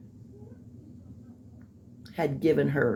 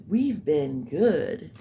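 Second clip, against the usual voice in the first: mimicking her; much slower than usual. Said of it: "She goes".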